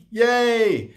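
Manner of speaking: high, loud little cheer of joy; a gleeful yay from the employee; excited cheer. Retold or imitated. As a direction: squeal a happy yay. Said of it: "You're like".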